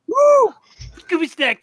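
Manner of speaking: high loud whoop; delighted whoop at the joke; excited whoop. Real, not acted. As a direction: cheer it out. Cheering at the Scooby stick.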